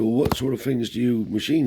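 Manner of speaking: old man grilling a guest, voiced high and loud; grandfather's voice.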